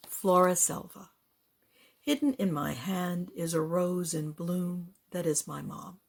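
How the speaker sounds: measured poetry reading with lifted key phrases; poem recitation. Acted. Poet reading own work for library listeners, poem recitation. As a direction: recite it deliberately, pausing between phrases.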